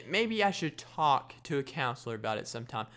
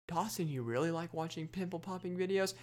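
pretend questioner; 3 semitones higher, 7 dB quieter than usual. Imagined questioner asks himself.

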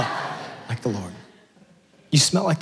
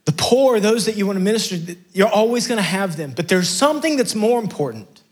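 Jesus earnestly; 7 semitones higher than usual. Retold or imitated. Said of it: "He actually says".

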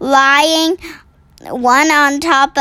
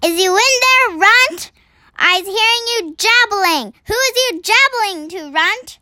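a giant calling into the cave, pitched well higher; thunderous giant voice; 7 semitones higher than usual. Acted. Giant at the cave mouth calling for Runt, hammed-up thunder voice. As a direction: boom it in like distant thunder, mock menace. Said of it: "a voice like thunder shouted".

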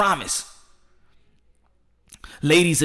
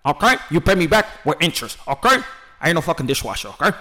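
mock Lomachenko accent. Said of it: "my Tony Montana impression".

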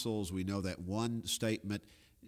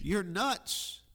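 mock outburst; 9 semitones higher than usual. Paraphrasing Festus's outburst at Paul.

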